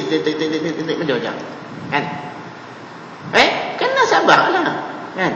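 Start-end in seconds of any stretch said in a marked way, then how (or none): 0.1-1.3 soft, low mock whispering patter; imitated devil's whispering. Preacher imitates Satan whispering into people's hearts, mock whispering. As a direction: mimic a tempter's murmured prompting. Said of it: "dia bisik".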